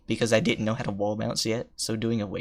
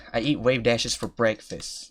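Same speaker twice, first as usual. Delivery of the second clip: loud, swaggering brag; cocky boast; 4 dB louder than usual. Pretend. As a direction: boast like a pro gamer. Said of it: "I do not, in fact".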